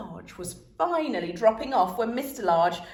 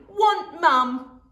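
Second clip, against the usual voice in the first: put-on loud slow toddler refusal; bellowing toddler; 8 semitones higher, 6 dB louder, much slower than usual. A narrator's reading. Toddler refusing dad, bellowed. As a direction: bellow like a stubborn baby. Baby voiced.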